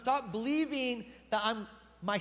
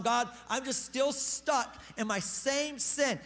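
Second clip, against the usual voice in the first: mock moping; 3 semitones higher, much slower than usual. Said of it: "moping around going".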